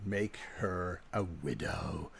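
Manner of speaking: low, slow, soft imitation of a threat; drawn-out, hushed mock menace; acted menacing line. Quoting the greatest line in history, low slow menace.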